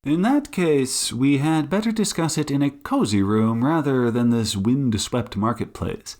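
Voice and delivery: measured detective, lightly voiced; Sherlock Holmes. Detective inviting woman indoors, lightly voiced courtesy. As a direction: suggest it with courteous, unhurried poise.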